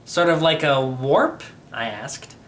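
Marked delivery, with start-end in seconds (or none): none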